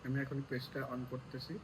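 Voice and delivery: low slow mutter to herself; slow aside under breath; quiet muttering. Real, not acted. Muttering while operating phone.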